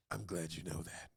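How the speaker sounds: soft, low gruff mutter; gruff Sean Penn voice. Retold or imitated. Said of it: "in his superhero voice".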